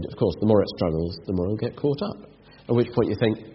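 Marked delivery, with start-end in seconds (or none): 0.0-2.3 low, softer, matter-of-fact retelling; calm commentator. Retold or imitated. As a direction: lightly imitate an unruffled nature-show narrator. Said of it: "the commentator very calmly said".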